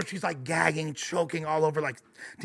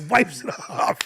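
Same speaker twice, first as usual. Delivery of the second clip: normal talking voice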